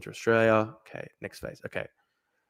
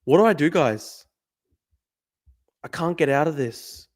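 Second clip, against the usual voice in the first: usual speaking voice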